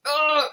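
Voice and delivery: tight, effortful "ugh"; strained grunt. Shown as a demonstration. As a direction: groan as if squeezing hard. Acts out gripping a pen tightly.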